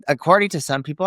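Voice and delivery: ordinary talk, nothing marked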